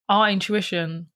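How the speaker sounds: breath running out midword; losing breath mid-phrase. Real, not acted. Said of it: "sorry, I lost my breath then".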